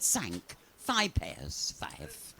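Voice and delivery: put-on French accent. French woman counts.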